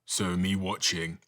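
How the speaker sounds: even siren. Shown as a demonstration. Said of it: "a little more even".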